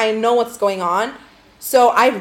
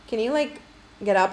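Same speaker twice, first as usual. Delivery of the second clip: hesitant, higher and softer ask; meek polite request; 3 semitones higher, 4 dB quieter than usual. Retold or imitated. Asking an overnight guest to get up, meek and hesitant. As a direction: tiptoe gently into an awkward favour. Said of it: "I didn't say it that way. I was like".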